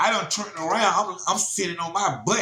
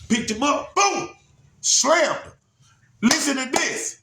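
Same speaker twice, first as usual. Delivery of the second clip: excited; 9 semitones higher than usual. Real, not acted. Telling listeners how he slammed him, pitched up with excitement. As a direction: let the excitement rise as he slams him. Climax of the fight story.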